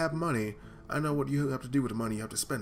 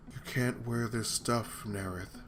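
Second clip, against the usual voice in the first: dead voice; 4 semitones lower, 4 dB quieter, slower than usual. Acted. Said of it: "it sounds dead".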